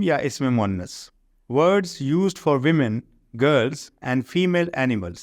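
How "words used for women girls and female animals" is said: slow, careful reading of the English rule; slow textbook reading. Shown as a demonstration. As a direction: read the rule out word by word for the class. Reads definition slowly. (انگریزی قاعدہ آہستہ آہستہ پڑھ کر سنانا)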